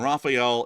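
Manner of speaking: Raphael as rah-fie-EL, three syllables; wrong pronunciation. Shown as a demonstration. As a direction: misread the plane's name as Raphael, rah-fie-EL. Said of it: "is just entirely wrong".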